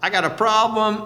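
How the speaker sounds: high, slow, awestruck confession; awed sinner. Acted. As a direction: gasp out your guilt before the glory. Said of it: "they were like".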